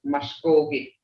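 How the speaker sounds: sustained middle syllable in "Muskogee"; elders' pronunciation. Shown as a demonstration. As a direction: say Muskogee as mush-KOH-geh, like the elders. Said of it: "That's how the elders talk".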